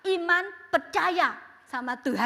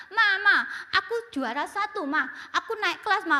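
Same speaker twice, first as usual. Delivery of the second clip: put-on a boy calling out happily, pitched higher; excited child; 4 semitones higher, 4 dB louder than usual. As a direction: announce the win to mom, bursting with joy. Child runs home with news. (anak girang memanggil mama)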